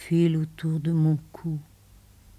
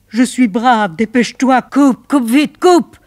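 rising, louder urgent plea; desperate plea; 4 semitones higher, 11 dB louder than usual. Acted. Woman begging her lover to hang up, building loud. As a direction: force it out before breaking.

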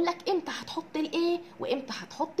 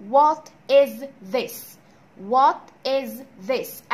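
very slow model; 7 dB louder, much slower than usual. Shown as a demonstration. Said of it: "teacher models the question".

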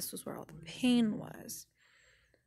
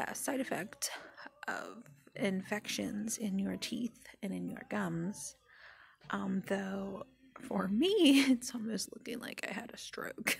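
numb face. Real, not acted. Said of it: "I couldn't move my mouth well on this side".

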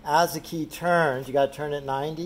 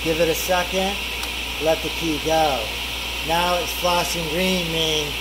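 shouting over table saw; 4 dB louder than usual. Real, not acted. Talking over running table saw.

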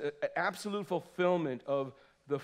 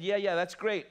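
mock casual; 3 semitones higher, 3 dB louder than usual. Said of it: "He didn't say it that way".

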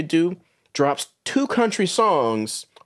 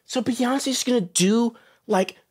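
higher mock gushing, slowed at the start; gushing fan mockery; 7 semitones higher, slower than usual. Mocking white fans who gush over a singer's new album, hammed-up excitement. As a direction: mimic a thrilled fan who misses the irony. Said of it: "and they're going".

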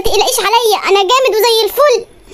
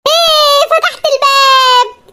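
surprised delight; 4 semitones higher, much slower than usual. Acted. Door suddenly opens.

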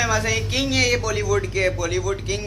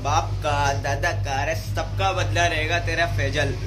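quoting Nawazuddin; slower than usual. Retold or imitated. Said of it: "gang of Wasseypur में".

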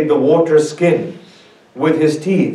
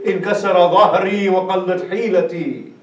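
mournful Arabic wail; anguished cry; 3 semitones higher than usual. Acted. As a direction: cry it out as a grieving brother. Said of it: "grabs his back and cries out".

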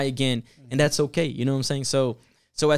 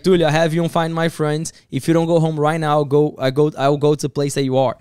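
pastor's stern threat; 6 dB louder than usual. Retold or imitated. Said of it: "he's like, he's like".

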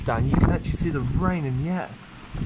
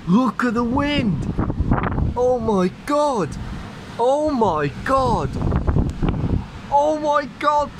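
excited; 5 semitones higher, 3 dB louder than usual. Real, not acted. Wind gusts hit.

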